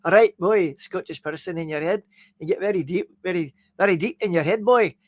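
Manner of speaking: rough, hammy Scottish accent. Shown as a demonstration. Streamer coaching himself into character, rough Scottish accent. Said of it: "start picturing a Scottish person".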